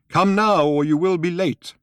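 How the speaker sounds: high, loud summons; old man calling Arthur to come. A narrator's reading. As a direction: call him over firmly. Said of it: "called the old man".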